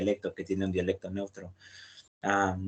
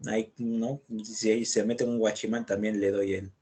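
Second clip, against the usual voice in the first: Lima street slang. Retold or imitated. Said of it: "Es un ejemplo ... habla, pues, cotidiana".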